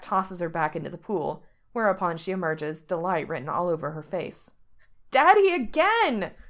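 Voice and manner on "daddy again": put-on little girl. A narrator's reading. Child Angel squealing.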